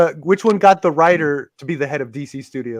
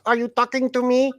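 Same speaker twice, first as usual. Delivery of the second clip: Taxi Driver tough guy line; lightly voiced De Niro menace; De Niro impression; 8 semitones higher than usual. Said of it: "De Niro does his Taxi Driver impression in a Russian accent".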